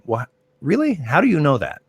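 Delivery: mock disbelief, voice jumping way up; mock incredulity. Umpire scoffing at a know-it-all critic, high mock disbelief. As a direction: scoff at the critic as if truly amazed.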